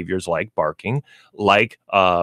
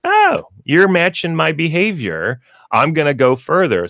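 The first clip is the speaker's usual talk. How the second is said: higher-pitched dog's thoughts; 7 semitones higher than usual. Acted. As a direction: voice an egged-on dog, pitched up. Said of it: "What do you think the dog's thinking".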